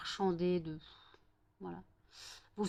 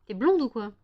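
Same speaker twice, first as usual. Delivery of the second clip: loud mocking question; teasing loud jab; 3 semitones higher, 8 dB louder than usual. Real, not acted. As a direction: poke fun at the dog. Mocking barking dog. (moquerie lancée fort)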